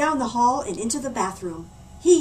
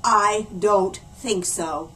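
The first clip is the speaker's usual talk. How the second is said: flat refusal; 4 semitones lower, slower than usual. Acted. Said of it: "stared a steely stare".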